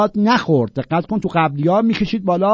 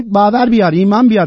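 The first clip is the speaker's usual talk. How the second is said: high, loud scornful imitation; mock the clueless preacher; 6 semitones higher, 7 dB louder, faster than usual. Mocking the preacher.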